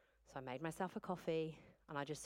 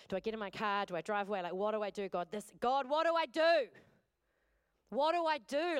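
panicked cry to God; 2 semitones higher, 6 dB louder than usual. Retold or imitated. Mother on the laundry floor crying out to God, panicked. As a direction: let the panic climb until it breaks. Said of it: "Like, I was like".

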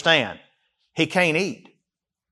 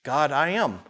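much softer, deflated; quiet despair after the outcry; sinking back down; 9 dB quieter than usual. Acted. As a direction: let it fall away hopelessly. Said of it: "he comes out of it again".

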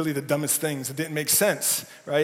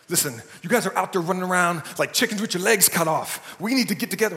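tense coach; 2 semitones higher than usual. Retold or imitated. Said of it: "he gets all tense".

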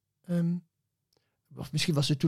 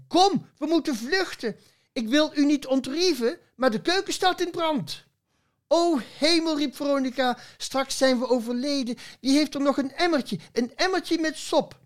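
much higher, hammed-up alarm; mock panic; 10 semitones higher than usual. Parson and sheep fleeing the burning kitchen, hammed-up high panic. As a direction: squeal it out like the kitchen's ablaze. Fire panic voiced in poem.

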